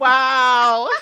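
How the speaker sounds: a loud, high, laughing Wow; mock shock. Real, not acted. Friend playfully roasted on a podcast, gasps in loud mock shock. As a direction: act stunned at being roasted.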